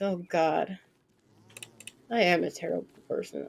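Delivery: ordinary delivery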